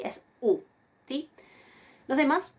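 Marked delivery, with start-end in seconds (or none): 0.4-0.6 U as one single pure vowel; pronunciación correcta. Shown as a demonstration. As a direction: say just U, no O before it. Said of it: "no es así". (U como una sola vocal)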